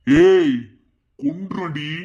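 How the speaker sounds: loud sharp bark; sudden menacing shout; threatening shout. Acted. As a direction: snap at her.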